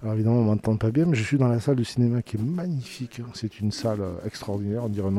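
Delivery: muffled speech through a face mask. Real, not acted. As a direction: talk behind a face mask. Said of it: "là je parle avec un masque".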